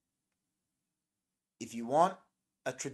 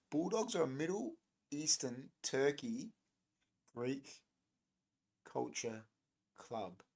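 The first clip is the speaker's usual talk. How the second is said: softer, trailing off word by word; fading disbelieving repeat; 5 dB quieter than usual. Shown as a demonstration. Streamer rereads chat in disbelief, fading quieter. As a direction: repeat it slowly as it sinks in. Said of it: "what do you mean".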